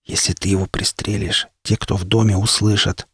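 very soft, barely audible whisper. A narrator's reading. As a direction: hush it so nobody hears. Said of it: "прошептал я так тихо".

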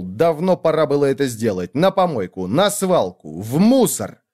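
a mild shout, building to the last words; throwing the canvas out in a rage; angry brother yelling at the ruined painting. Acted. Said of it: "Крикнул".

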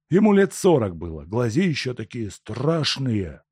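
a downtrodden peasant pleading, high; humble peasant. Acted. Peasant describes the tramp.

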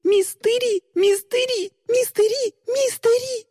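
frantic chant building to realization; rising frantic repetition. Acted.

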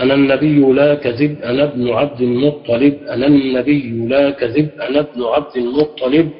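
chanted verse with rising line ends; poem recitation. Acted. Teacher reciting a verse to the class, measured recitation.

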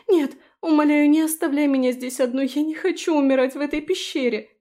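high, loud desperate plea; panicked begging. Acted. Felicia begs Daphne not to leave her, terrified.

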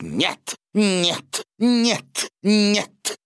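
rising frantic no no no; истеричный крик. A narrator's reading. Графиня кричит в истерике. (истеричное «нет»)

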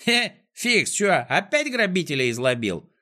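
high-pitched call across the field. A narrator's reading. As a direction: shout a question to someone passing. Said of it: "закричал". (окликает криком, высоко)

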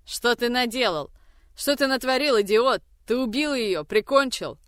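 high, loud grating scream; harsh screaming. Acted. Mother screams at Grigory after the killing, high and harsh. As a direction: shriek it at the idiot son. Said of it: "Резкий, как скрежет, голос матери кричит".

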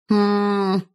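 hesitant hum. Acted. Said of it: "замялась подруга".

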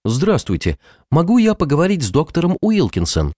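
нарочито чужой голос; изменённым голосом, чтобы не узнали; изменённый голос. Acted. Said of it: "Эмма заговорила изменённым голосом". (изменённый голос)

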